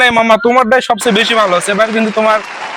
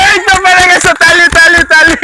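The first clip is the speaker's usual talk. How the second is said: higher and louder, calling for claps; excited cheering; 5 semitones higher, 3 dB louder than usual. Real, not acted. Teacher cheers a child who made it, excited. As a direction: burst out cheering the winner.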